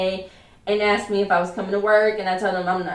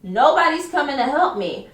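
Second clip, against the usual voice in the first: mild mock yell, pitched up; retold yell; 5 semitones higher than usual. Worker calls to the bakery for help, mild retold yell. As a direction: imitate calling for help, raised but not shouting. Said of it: "I yelled at somebody in bakery".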